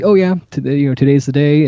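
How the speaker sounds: mildly mock-breezy, as if it were nothing; happy-go-lucky. Imagined patient shrugging off the procedure, mildly happy-go-lucky. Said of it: "a happy-go-lucky".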